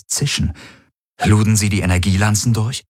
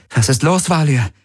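icy, lifeless question, pitched higher; cold and dead; 9 semitones higher than usual. Acted. Kirai taunting her captor, cold as ice. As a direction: ask as if nothing could touch you. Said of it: "ihre eigene Stimme kalt und tot wie Eis".

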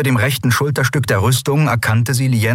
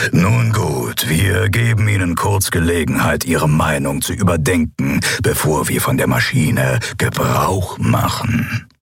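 imperious emperor; 4 semitones lower than usual. Acted. Figur des Kaisers. (herrischer Kaiser, zum Ende tief und langsam)

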